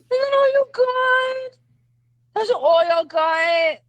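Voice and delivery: slow, stretched-out challenge; drawn-out taunt. Real, not acted. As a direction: goad them, dragging out each word.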